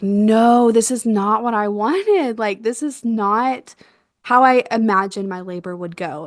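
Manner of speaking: drawn-out, mildly dismayed refusal; retold protest. Labor begins wrong, mother protesting in dismay.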